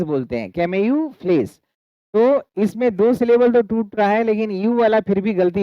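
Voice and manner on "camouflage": "camouflage" slowly as "ke-me-yu-flez"; pronunciation shown. Shown as a demonstration. Teacher shows the easily missed u, slow careful pronunciation. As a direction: stretch "camouflage" with a clear "yu" before "flage". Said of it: "इसको हम camouflage बोलते हैं".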